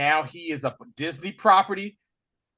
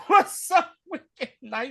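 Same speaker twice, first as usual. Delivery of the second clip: higher, slow, sweet put-on voice; Nice Pool impression; 8 semitones higher, slower than usual. Mimicking Nice Pool's voice.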